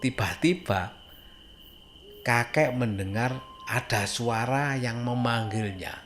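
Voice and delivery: ordinary delivery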